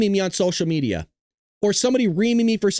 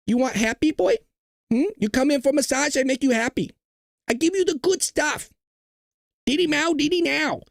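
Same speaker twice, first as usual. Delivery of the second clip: hammed-up Asian accent, partly pitched up; mock Asian accent; 3 semitones higher than usual. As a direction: caricature an Asian accent as a pushy sales pitch. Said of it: "that Asian accent just came out".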